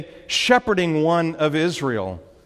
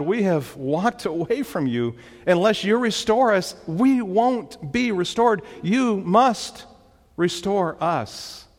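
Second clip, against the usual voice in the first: pleading; 4 semitones higher than usual. Acted. Preacher voicing the psalmist's plea.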